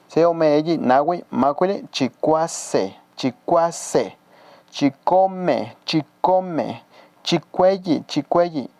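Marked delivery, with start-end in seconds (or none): 1.9-8.7 "chicuase", "chicome", "chicuelli" syllable by syllable, each said twice; drilled for repetition. Shown as a demonstration. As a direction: model "chicuase", "chicome", "chicuelli" slowly for learners, stretching the syllables. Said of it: "vamos a repetirlo así".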